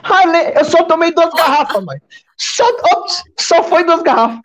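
high, mock-innocent tipsy excuse; trying to sound sober. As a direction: act casual, playing it down. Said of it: "que eu tô brincando".

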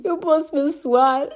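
slow, teary, stuffed-up ask; lightly tearful plea to the director; just-cried voice. Retold or imitated. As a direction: sound like you just stopped crying. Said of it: "aquele tom de voz de pessoa que tinha acabado de chorar".

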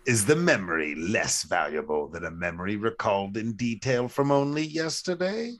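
put-on British, rising at the end; medieval British accent. Co-host finishing the riddle, medieval British accent. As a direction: medieval fantasy British accent, question lifted at the close. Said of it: "that's some medieval shit".

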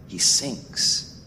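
hushed, breath-only repeat; sombre, voiceless echo; grave hush. Real, not acted. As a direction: let it drop to a grave near-whisper. Repeated low for dramatic weight.

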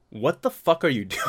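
laughing disbelief. Retold or imitated. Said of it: "I didn't say that, but I thought that".

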